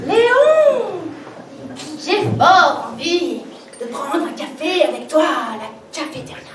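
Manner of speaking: seductive invitation, second take; sultry voice. Acted. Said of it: "Je recommence".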